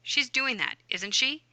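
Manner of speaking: statement, then "isn't she" rising at the end; tag question. Shown as a demonstration. Teacher showing tag words, questioning lift on "isn't she". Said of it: "add that extra bump tag at the end".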